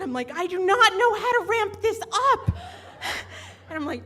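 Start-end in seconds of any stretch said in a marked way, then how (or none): 0.4-2.6 laughing fluster. Retold or imitated. Flustered quote.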